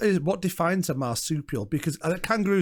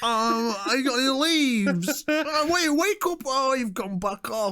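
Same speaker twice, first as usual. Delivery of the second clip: put-on higher-pitched sleepy koala, Northwest English accent; hammed-up Northwest accent, pitched up; 7 semitones higher, slower than usual. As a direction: play a koala in a Warrington-ish accent. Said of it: "it's like Northwest kind of koalas".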